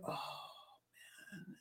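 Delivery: breathy whispered sigh of dismay. Retold or imitated. Recalling reading the Boulder news, whispered dismay. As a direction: barely voice it, just air. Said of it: "And I was like".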